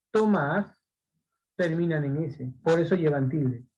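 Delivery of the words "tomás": Tomás with the final A leaned on; stress on last syllable. Shown as a demonstration. Teacher showing an example with tilde, stress on MÁS in Tomás. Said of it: "son agudas".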